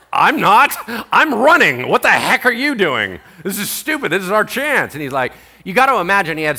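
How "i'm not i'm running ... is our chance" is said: loud, high exasperated protest; prisoners arguing. Acted. Prisoners arguing with Paul to run, loud and high. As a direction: argue back to him in disbelief. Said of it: "And they're like".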